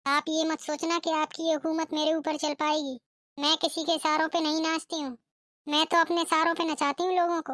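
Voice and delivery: lightly voiced bride laying down the law; defiant bride. Bride defying mother-in-law. (सास को ललकारती बहू)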